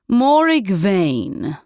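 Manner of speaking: slow, offhand self-introduction; feared witch, lightly voiced, nonchalant; casual nonchalance. A narrator's reading. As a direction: drop the name lightly. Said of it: "with casual nonchalance".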